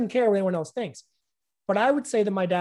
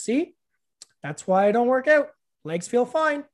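imitating dad; 5 semitones higher than usual. Dad's reply voiced in story.

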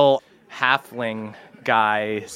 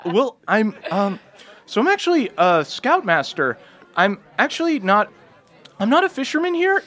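put-on higher, stammering nervous young voice; nervous halfling boy; 11 semitones higher than usual. Halfling scoutmaster pleading with a hero, high and jittery. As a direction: blurt it out like a scared scout leader.

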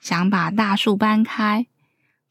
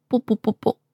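little row of popping sounds; storyteller's imitated pops; flying teeth popping; 4 dB quieter, faster than usual. A narrator's reading. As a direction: pop out each tooth in turn. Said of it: "小鳄鱼的牙齿飞出来的声音".

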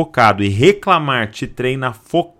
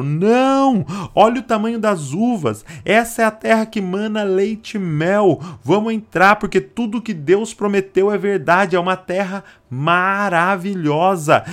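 higher, eager hopeful voice; hopeful spy; 7 semitones higher than usual. Retold or imitated. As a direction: urge them to go in. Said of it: "Agora dois falaram". (espião animado em voz mais aguda)

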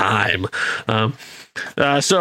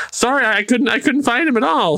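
higher, eager apologetic voice; Jimmy Olsen type; 8 semitones higher than usual. Retold or imitated. Underling apologizing again, a bit higher and sheepish. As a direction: apologize like a gee-whiz sidekick. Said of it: "The Jimmy Olsen of the MCU".

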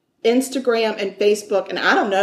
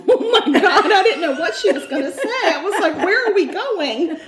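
laughing; 9 semitones higher than usual. Real, not acted. Friend's surprise Scottish podcast joke.

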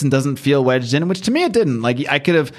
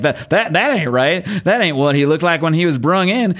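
put-on Southern accent; 5 semitones higher than usual. Medical examiner puzzling over the body, light Southern accent. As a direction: lightly voice him with a Southern twang. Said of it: "why I'm giving him this accent".

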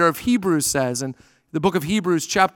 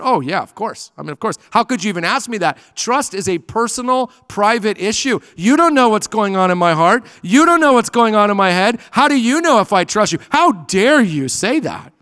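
hammed-up offended outburst, louder on the middle lines; mock indignant protest; 2 semitones higher, 4 dB louder than usual. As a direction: play the defensive student, building to an indignant How dare you. Pastor acts defensive student protesting.

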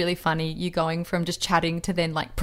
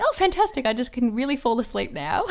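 high, sarcastic "fantastic", easing down into a laugh; sarcastically thrilled, pitched up; mock delight; 5 semitones higher than usual. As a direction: feign delight at bad news, amused. Sarcastic reaction to abusive review.

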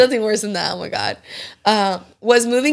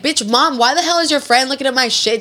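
pretend angry callout; 3 semitones higher than usual. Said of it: "I'd be like".

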